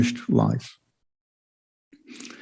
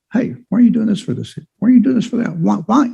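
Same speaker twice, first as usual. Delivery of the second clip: higher, whiny mock complaint to his father; imitating a complaining son; 9 semitones higher than usual. Older son griping to his dad, higher mock whine. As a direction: play the resentful son griping, voice pitched up. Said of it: "complains to his dad".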